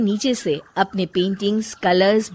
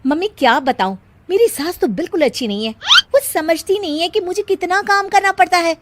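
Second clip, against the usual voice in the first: grumbling complaint; 5 semitones higher, 4 dB louder than usual. Acted. Daughter-in-law complains on phone.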